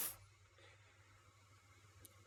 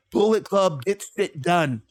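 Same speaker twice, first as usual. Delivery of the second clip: Juice's catchphrase. Retold or imitated. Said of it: "And then Juice speaks and he says".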